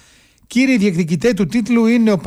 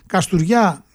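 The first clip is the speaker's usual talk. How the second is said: "Καστουριά" in local dialect, o turned to ou; local Kastoria accent; slower than usual. Real, not acted. Radio host reading fixtures slips into local speech, local Kastoria accent. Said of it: "το είπα πολύ με προφορά, έτσι, ντόπιο λαλιάς".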